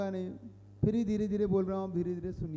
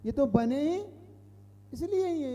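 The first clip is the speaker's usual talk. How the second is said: raised, mock-insistent quote; quoting the opponents; 5 semitones higher than usual. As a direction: lightly voice the opponents' smug answer. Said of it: "क्या कहते हैं वो".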